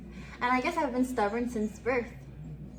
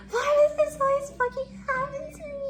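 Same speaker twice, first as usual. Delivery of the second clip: high, louder half-crying, half-laughing wail; retold sobbing wail; 4 dB louder than usual. Retelling her street meltdown, mock sobbing wail. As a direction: replay the meltdown, voice cracking with a laugh. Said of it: "I was, like, sobbing".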